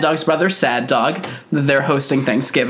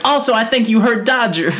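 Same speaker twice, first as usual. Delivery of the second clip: mock menace; 8 semitones higher than usual. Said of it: "It's like".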